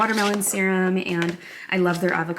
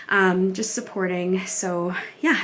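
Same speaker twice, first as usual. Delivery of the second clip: slightly winded after the stairs; breathless after running upstairs; out of breath; slower than usual. Real, not acted. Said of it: "I'm out of breath".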